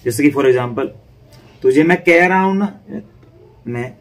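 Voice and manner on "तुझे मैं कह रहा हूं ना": "कह" punched higher and louder; teacher demonstrating stress on "कह"; raised stress. Shown as a demonstration. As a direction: lift "कह" out of the phrase with a firm push. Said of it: "उठ के बोला जाएगा".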